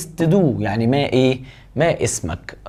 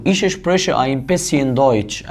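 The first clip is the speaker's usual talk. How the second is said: slow dictation; much slower than usual. Shown as a demonstration. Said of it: "slow dictation of the answer".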